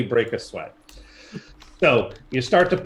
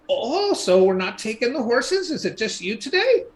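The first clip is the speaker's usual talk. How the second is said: slipped out of the crone voice; failed old lady voice; 9 semitones higher than usual. Acted. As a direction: try the old lady but miss it. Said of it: "that was not my old lady voice".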